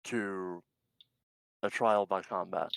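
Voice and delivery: loud, slow challenge at first; yelled formal challenge. Acted. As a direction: call it out like a duel. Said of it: "yells in".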